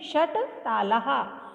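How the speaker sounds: षट तालाहा said slowly, word by word; slow answer. Shown as a demonstration. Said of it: "कितने हैं?". (धीमा उच्चारण)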